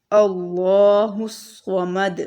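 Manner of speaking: अल्लाहु समद with the final द bounced; slow chant, ring out the दाल of समद; qalqala on dal. Shown as a demonstration. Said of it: "इस पर कलकला करेंगे". (समद की दाल पर कलकला)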